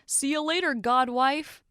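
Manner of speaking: high, playful teasing voice; corny joking. A narrator's reading. Best man teasing his fellow godparent, corny and playful. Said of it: "made a corny joke".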